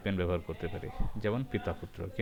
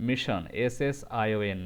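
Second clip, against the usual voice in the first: slow spelling demo; much slower than usual. Shown as a demonstration. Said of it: "এই এসএস এর জন্য যে স".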